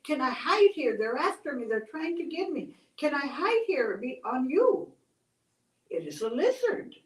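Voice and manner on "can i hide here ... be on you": higher, emphatic plea to hide; urgent pleading. Acted. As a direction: act out a hunted little creature begging for shelter. Chased lizard begs for shelter.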